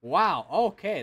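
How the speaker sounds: loud, drawn-out wow of surprise; a slow, real gasp of awe at the radar; surprised wow. Real, not acted. Streamer sees a supercell on radar, surprised slow wow.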